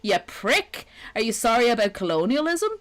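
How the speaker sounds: worked-up, sarcastic grievance; salty rant. Acted. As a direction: fire off loud, mock-outraged accusations at the offender. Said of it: "Still fucking salty about that".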